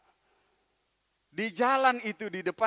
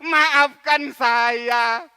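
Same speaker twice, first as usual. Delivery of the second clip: relieved realization; 6 semitones higher, 13 dB louder than usual. Acted. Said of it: "Dia bilang".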